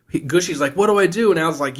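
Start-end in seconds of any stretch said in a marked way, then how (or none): 0.8-1.3 high, louder mock-helpless question; imitated panicked plea. Gushy asks Al for orders, in acted high panic. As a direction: plead in pretend panic.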